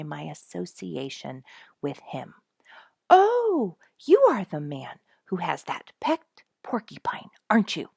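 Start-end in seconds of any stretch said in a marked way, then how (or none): 3.1-7.9 excited stranger. Retold or imitated. Strangers recognizing the pet's owner.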